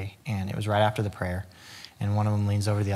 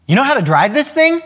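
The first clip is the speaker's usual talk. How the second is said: high squeaky goldfish voice; 12 dB louder than usual. Acted. Goldfish punchline voice.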